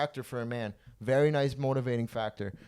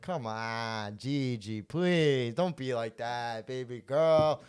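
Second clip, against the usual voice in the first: slow pleading sweet-talk; much slower than usual. Retold or imitated. Begging Gigi in retold story.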